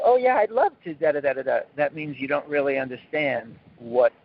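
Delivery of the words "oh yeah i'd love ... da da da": glib, breezy mock enthusiasm; lightly mocking yes-man; mock eager. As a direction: toss it off like it's easy. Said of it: "and if you go".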